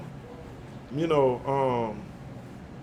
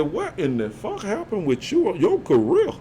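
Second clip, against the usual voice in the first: mock outraged publicist; 5 semitones higher than usual. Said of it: "Boy, she came to me and said".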